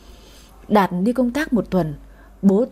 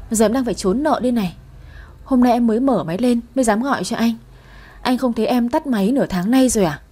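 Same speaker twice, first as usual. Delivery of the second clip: mild sobbing plea; 3 semitones higher than usual. Acted. Woman hiding from creditors begs ex, mildly tearful. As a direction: beg desperately but understated. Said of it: "khóc nức nở".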